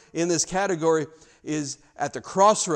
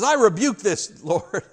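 Peter's loud rebuke; 6 semitones higher, 9 dB louder, slower than usual. Retold or imitated. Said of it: "Peter says to Jesus".

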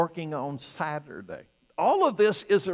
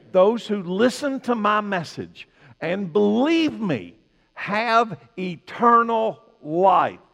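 loud, raised, emphatic sermon delivery; preaching at full force; 5 semitones higher, 7 dB louder than usual. Acted. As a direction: drive the verse home to the congregation.

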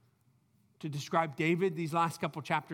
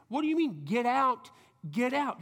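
incredulous; 3 semitones higher than usual. Retold or imitated. Preacher mimicking a puzzled hearer, raised in disbelief. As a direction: throw the words back in mock amazement.

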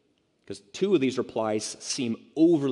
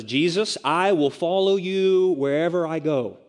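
enthusiastic confession; 5 semitones higher, 4 dB louder than usual. Acted. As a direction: proclaim it with big, acted enthusiasm. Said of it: "about his enthusiasm".

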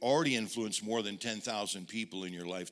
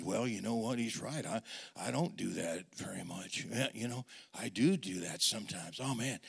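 guilty murmur; 3 semitones lower, 6 dB quieter than usual. Retold or imitated. Inner guilty self-talk.

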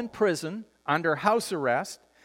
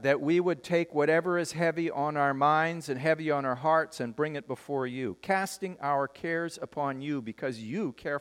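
spoken prayer; 2 semitones lower than usual. Real, not acted. Pastor praying to the Father for the congregation, earnest and softening.

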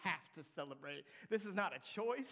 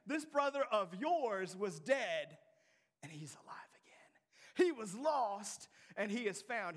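God's reply; 6 semitones higher, 5 dB louder than usual. Retold or imitated. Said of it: "how God responds to us".

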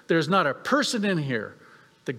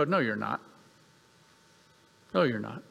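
low, softer, matter-of-fact put-down; dismissive reply; 6 semitones lower, 5 dB quieter than usual. Retold or imitated. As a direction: quietly shut the pretender down, voice dropped. Acted players dismissing a fan in costume.

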